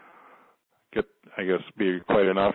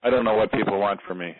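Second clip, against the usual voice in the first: said on exhale; faster than usual. Shown as a demonstration. Client repeats the healer's phrase to release it, exhaling. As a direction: release the words with a long outward breath. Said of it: "Say that and exhale out".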